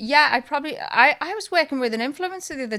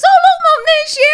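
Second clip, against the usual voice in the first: put-on much higher, loud, sweet child's voice; little daughter voice; 13 dB louder than usual. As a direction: chirp it like a small girl. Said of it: "the little one goes".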